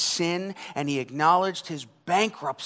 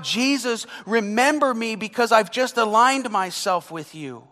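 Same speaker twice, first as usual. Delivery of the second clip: mock self-righteous plea; 6 semitones higher, 5 dB louder than usual. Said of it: "He didn't cry out".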